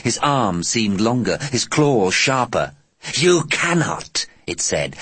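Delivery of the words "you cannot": alien voice. Acted.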